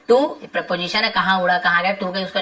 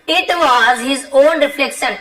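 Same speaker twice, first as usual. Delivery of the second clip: slow dictation; 4 semitones higher, much slower than usual. Shown as a demonstration. Teacher reading the lesson sentence to students, slow and deliberate. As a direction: read it out slowly so the class can follow.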